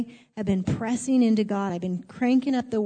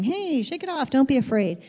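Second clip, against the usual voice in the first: breezy brush-off; 3 semitones higher than usual. Retold or imitated. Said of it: "just someone saying".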